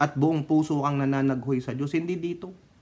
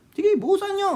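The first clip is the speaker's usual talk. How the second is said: eager go-ahead. Retold or imitated. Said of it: "Sabi niya".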